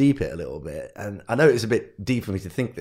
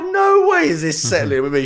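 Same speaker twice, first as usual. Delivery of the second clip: loud, high, furious mum voice; raised furious telling-off; fuming mum; 8 semitones higher, 7 dB louder than usual. Retold or imitated. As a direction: blast it like a livid mother. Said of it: "My mum was fuming".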